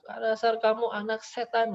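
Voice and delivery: angry neighbor mother. Retold or imitated. Neighbor mother cursing her child from across the street, angry. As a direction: spit out the insult. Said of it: "kalau marahin anaknya tuh luar biasa".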